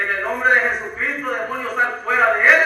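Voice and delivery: loud, commanding exorcism cry; rebuking a demon. Retold or imitated. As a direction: cast the demon out with authority.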